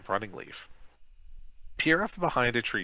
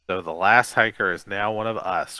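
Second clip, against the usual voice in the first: a touch of gloating, a bit louder; 6 dB louder than usual. Acted. Coach boasting over the new zombie, mild gloat. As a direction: mildly savour the win. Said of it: "Crump gloats".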